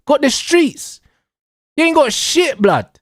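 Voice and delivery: high put-on voice of a gloating fan; mock fan voice. Lightly voiced Arsenal fan, mocked by a rival supporter. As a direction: parrot the boast in a silly voice. Mocking Arsenal fans' boast.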